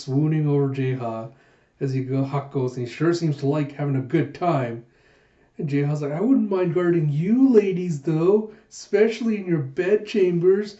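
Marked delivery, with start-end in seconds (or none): 6.1-10.8 flirtatious. Acted. Jaeha flirting with the ladies.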